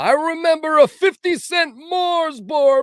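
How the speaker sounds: put-on high, slow, shaky old man voice; grandpa voice. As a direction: creak it out like a grandpa. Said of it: "Here's another grandpa".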